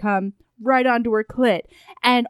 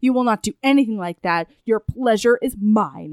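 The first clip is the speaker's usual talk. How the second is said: retold dominant command; 3 semitones lower than usual. Retold dominant man commanding her.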